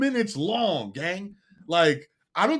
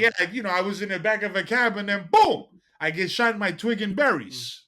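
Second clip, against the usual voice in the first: louder, chatty fake Italian New Yorker; light wiseguy Italian accent, a bit louder; mock Italian New York accent; 5 dB louder than usual. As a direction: spin the tale in a put-on Italian-American New York accent. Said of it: "he's not even Italian and he sounds Italian".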